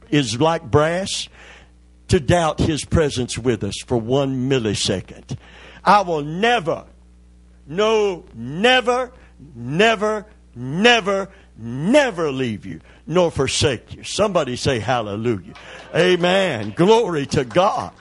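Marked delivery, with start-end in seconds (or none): 5.8-14.0 rising preacher's cry. Acted. Preacher's climactic repeated promise.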